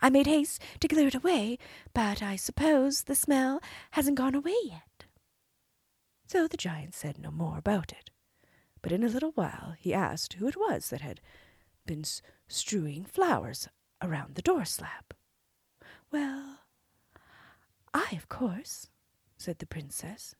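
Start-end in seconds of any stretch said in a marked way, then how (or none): 0.0-5.1 high, sweet princess voice; cartoon princess. Princess answering the giant. 16.1-18.9 cartoon princess. Princess answering.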